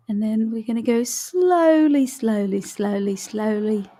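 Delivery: put-on a light, half-accidental British accent; slipping into British accent. Coach counting a shoulder roll in a hint of British accent. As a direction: drift into a mild British accent on the slowlys. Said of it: "I've morphed into some kind of British accent".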